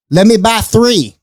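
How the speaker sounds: eager customer. Retold or imitated.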